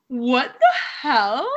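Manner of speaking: slow, laughing disbelief. Retold or imitated. Stunned reaction, laughing.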